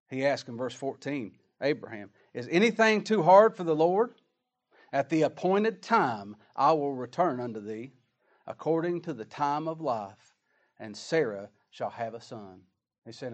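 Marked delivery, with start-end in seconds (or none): 2.3-12.7 preacher proclaiming God's promise; proclaimed scripture. Acted. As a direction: ring out the question. Reading the Lord's words.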